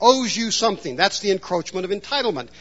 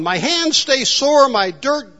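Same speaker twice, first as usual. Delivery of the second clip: whiner; 3 semitones higher than usual. Retold or imitated. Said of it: "He would go on and on".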